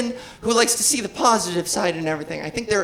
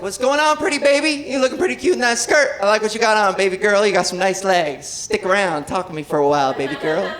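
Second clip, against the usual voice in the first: catcalling man; 3 semitones lower than usual. Retold or imitated. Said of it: "he calls out to me".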